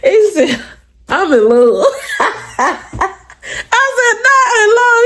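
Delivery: high, giddy laughing confession; laughing boyfriend. Retold or imitated. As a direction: gush it while laughing. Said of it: "He told me".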